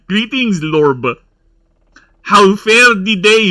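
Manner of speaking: put-on Burb house accent. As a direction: greet like a lord who ends words with B. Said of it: "That's our accent".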